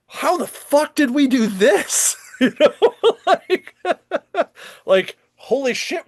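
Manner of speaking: laughing in disbelief; high, giddy laughter through the words. Real, not acted. Laughing at own success.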